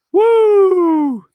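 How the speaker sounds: long, loud, high whoop; sarcastic celebratory whoop; mock cheer. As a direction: cheer for a pretend voucher. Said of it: "mock cheer".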